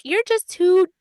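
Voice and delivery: mock exasperation. Mock insulting the friend.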